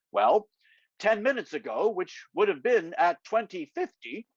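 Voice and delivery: The speaker briefing Angus like a spy, mock authoritative. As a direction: play the serious agent. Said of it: "in my most authoritative voice".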